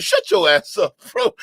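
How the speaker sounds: loud, fed-up yell; angry shout. Real, not acted. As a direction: shout him down. Ranting at the lying storyteller.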